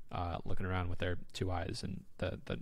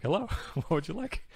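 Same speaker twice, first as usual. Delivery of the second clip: laughing burger man; 7 semitones higher than usual. Retold or imitated. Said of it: "he's like".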